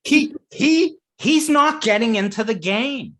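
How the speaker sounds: high, loud, laughing words; laughing while talking. Real, not acted.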